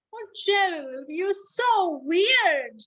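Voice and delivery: high, slow teasing sneer; mocking taunt. Animals sneering at Gerald, high and slow. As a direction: drag it out to tease.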